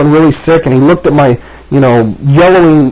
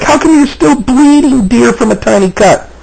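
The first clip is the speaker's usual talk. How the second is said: fake-sweet wife; 7 semitones higher than usual. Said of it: "It's like".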